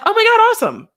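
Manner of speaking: high thrilled cheer; excited gush. Shown as a demonstration. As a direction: gush over good news. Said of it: "Normally, it would be like".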